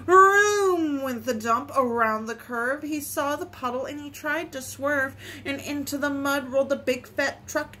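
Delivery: gentle, measured story reading; picture-book reading. Acted. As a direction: read it simply for small children. Reads a picture book aloud.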